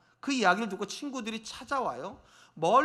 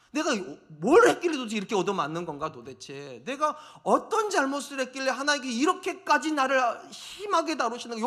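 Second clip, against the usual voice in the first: anguished protest; 4 semitones higher than usual. Acted. Job protesting undeserved suffering.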